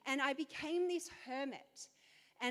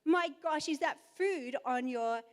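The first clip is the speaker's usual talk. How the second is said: lightly voiced stern mum; a hint of a scolding mother; crisp disapproving governess. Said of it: "she's like".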